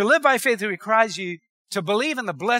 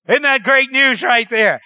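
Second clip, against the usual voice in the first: joyful exclamation; 6 dB louder than usual. Real, not acted. Preacher exclaims, slow and loud.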